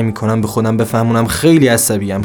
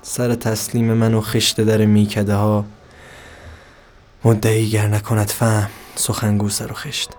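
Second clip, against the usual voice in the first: poem reading. Acted. Reads Hafez verse.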